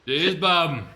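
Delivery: loud, falling catchphrase echo. Retold or imitated. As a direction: bark the catchphrase back. Echoing the catchphrase louder.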